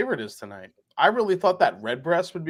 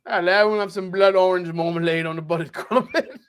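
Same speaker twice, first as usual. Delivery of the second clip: a laughing, clumsy attempt at an Irish accent; bad Irish accent; 4 semitones higher than usual. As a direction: order the crumpet in a badly faked Irish accent. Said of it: "I can't do an Irish accent".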